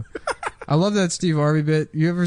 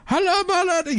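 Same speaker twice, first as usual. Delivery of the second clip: put-on squeaky high Arab-accent greeting; mock Arab accent, very high; faster than usual. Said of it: "doing, like, a Arab voice".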